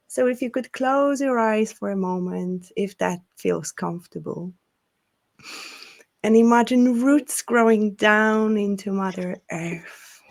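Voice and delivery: unhurried grounding voice with long pauses; guided meditation. Acted. Leads a grounding breathing exercise.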